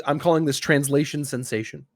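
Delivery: ordinary talk, nothing marked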